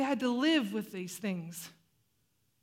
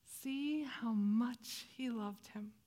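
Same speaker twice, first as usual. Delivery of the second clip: hushed; 6 dB quieter, much slower than usual. Acted. Bystanders voiced at Jesus' grief.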